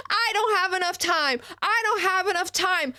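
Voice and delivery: sarcastic whiny imitation; mocking whine. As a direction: parody him complaining he has no time. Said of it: "You're sitting here".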